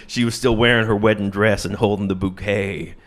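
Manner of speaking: lightly imitated country balladeer; a hint of dark, poetic country singer. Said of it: "sounds exactly like Johnny Cash".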